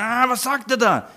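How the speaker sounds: high-pitched puzzled listener; exaggerated confused "ah", pitch climbing; mock incomprehension. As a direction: act out someone baffled by foreign speech. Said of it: "aber nicht verstehen".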